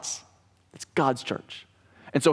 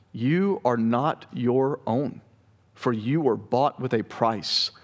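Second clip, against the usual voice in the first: measured, deliberate scripture reading; preacher's emphatic Bible reading. A narrator's reading. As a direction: read the passage aloud to a congregation, pausing between phrases. Reads scripture aloud to congregation.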